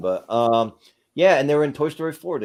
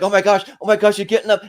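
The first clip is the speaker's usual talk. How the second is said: higher, louder mock astonishment; mock excited crowd; 8 semitones higher, 6 dB louder, faster than usual. Retelling the soccer sketch crowd seeing the flopper rise, higher and louder. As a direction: gasp it out like a shocked commentator. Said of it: "and like".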